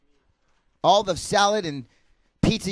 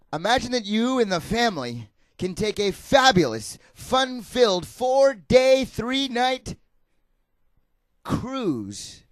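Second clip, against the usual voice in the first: booming prize announcer. Pretend. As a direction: sell the prize like a host. Game show prize pitch.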